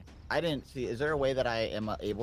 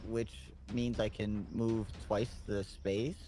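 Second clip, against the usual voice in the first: halfling voice; slower than usual. Acted. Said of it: "I found my halfling voice".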